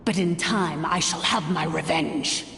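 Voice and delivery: savoring the coming revenge; menacing vow. Acted. Villain vows secret revenge.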